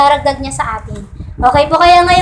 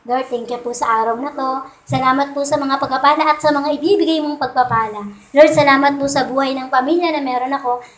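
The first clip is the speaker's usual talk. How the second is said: hushed, softer grateful prayer; soft thankful prayer; 3 semitones lower, 4 dB quieter than usual. Pretend. Pastor voicing a morning prayer to the Lord, soft and grateful. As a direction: pray it gently, like a quiet thank you.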